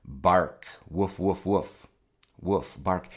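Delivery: lightly voiced woofs; short, spaced mock barks; imitated dog barking. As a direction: mimic a dog using words.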